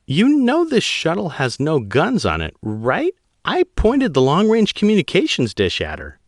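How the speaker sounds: high female pilot voice, tense and pleading; a rattled pilot explaining to an admiral; young woman pilot. Acted. Pilot Guano's voice.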